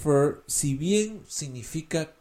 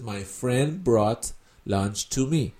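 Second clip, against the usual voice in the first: slow teaching demo; 4 semitones lower, 3 dB quieter, slower than usual. Shown as a demonstration. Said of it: "Entonces dices".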